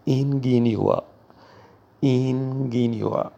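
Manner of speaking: careful German pronunciation of اینگینیوا; German word said slowly. Shown as a demonstration. Teacher modelling اینگینیوا for learners, careful German pronunciation. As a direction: say اینگینیوا clearly, German style. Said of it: "به معنای مهندس هست".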